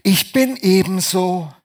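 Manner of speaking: "Ich bin ebenso" slow and stubborn, a hint of the father; lightly voiced stubborn father; imitating father. Preacher quoting his father at home, mildly stubborn. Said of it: "Mein Vater hat immer zu Hause gesagt".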